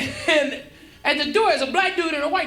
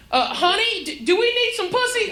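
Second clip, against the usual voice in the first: playing dumb; 7 semitones higher than usual. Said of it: "I was like, um".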